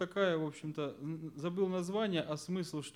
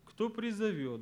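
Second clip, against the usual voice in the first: «Кто призовёт» lifted higher, then falling; stressed answer; 5 semitones higher than usual. Shown as a demonstration. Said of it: "вот на что я сделал ударение".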